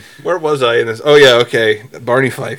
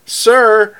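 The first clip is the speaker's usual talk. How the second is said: higher-pitched calling out, drawn out; retold yell; 7 semitones higher, much slower than usual. Driver calls to the officer out the window, retold yell. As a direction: imitate yelling to get someone's attention. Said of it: "I yell out the window".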